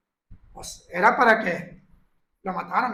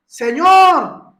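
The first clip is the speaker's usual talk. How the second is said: loud, slow plea for mercy; slow, imploring beggar's cry; pleading cry; 3 semitones higher, 4 dB louder, much slower than usual. Retold or imitated. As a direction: call out to the Lord, drawn out. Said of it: "como aquellos que decían".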